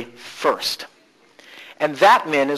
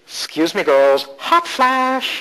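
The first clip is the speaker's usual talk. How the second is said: "hot flash" drawn out very slowly and higher; candid confession; 5 semitones higher, much slower than usual. Retold or imitated. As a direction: stretch the last words slowly, confiding to the women. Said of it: "she goes".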